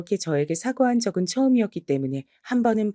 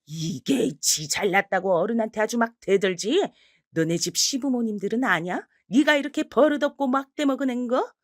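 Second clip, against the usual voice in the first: angry yell; 4 semitones higher than usual. Acted. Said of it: "시어머니도 버럭 소리를 질렀습니다".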